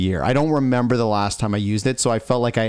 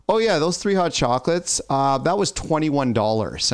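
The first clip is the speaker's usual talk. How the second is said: put-on kids laughing it out; 4 semitones higher than usual. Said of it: "They're like".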